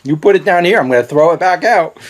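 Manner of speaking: lightly voiced stomach, laughing; a hint of a stomach threatening to throw it back; voicing his stomach. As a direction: play the stomach refusing the pepper, half laughing. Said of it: "my body's way of saying".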